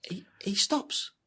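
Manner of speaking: hushed, breathy whisper; dramatic whisper. Acted. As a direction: drop to a whisper for suspense. Dramatic pause in war retelling.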